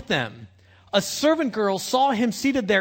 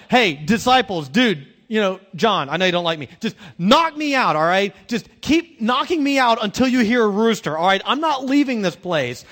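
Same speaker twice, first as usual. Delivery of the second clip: pleading with disciples; 5 dB louder than usual. Retold or imitated. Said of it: "I'm like".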